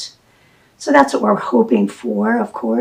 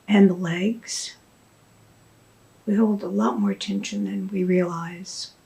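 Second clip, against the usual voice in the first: soft guided meditation with long pauses; unhurried, hushed guidance, leaving space after each phrase; guided body scan; 4 dB quieter than usual. Shown as a demonstration. Teacher guiding listeners to check in with the body, soft meditation voice.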